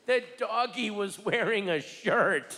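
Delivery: put-on high little-girl voice; a small child reporting a fact; daughter's voice. Comic telling his daughter's words in a high kid voice.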